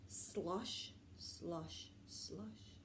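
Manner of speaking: soft, fading whispered slush; whispered slush sound. Acted. Snow whispering to the little owl, soft and fading. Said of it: "He heard something whispering".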